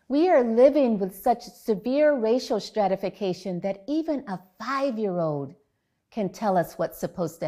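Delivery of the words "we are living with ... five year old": ordinary talk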